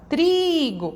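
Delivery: TRIGO with a high, long TRI and a short GO; prolonged tonic syllable. Shown as a demonstration. Teacher modelling how the child calls the word, high prolonged TRI in "trigo". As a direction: call out "trigo", stretching TRI. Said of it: "a gente prolonga quando a gente chama".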